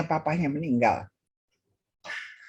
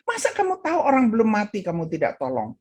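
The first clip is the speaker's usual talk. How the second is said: quick, mildly heated retold scolding; angry pastor; 4 semitones higher, faster than usual. Pastor rebukes the man for not helping, mildly angry. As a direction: imitate a pastor's reproach. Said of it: "Marahlah ini pastor".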